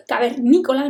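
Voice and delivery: CAVERNÍCOLA stressed on the NÍ syllable; word stress on the right syllable. Shown as a demonstration. Teacher showing word accent to students, stress on NÍ. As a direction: say cavernícola with the weight on NÍ. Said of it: "Normalmente las palabras tienen acento".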